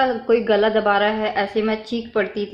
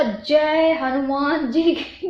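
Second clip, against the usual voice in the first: slow, stretched mock yell; retold yell; much slower than usual. Showing how she woke screaming, drawn-out mild yell. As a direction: act out crying out, without full volume. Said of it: "बहुत, नहीं से चिल्लाई थी मैं".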